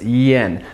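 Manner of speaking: "yen" with an e vowel, instead of "ian"; correct vowel sound. Shown as a demonstration. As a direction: say "yen" to rhyme with ten. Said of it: "I know you wanna say ian".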